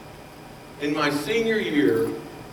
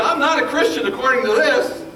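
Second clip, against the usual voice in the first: emphatic realization; 10 semitones higher, 6 dB louder than usual. Retold or imitated.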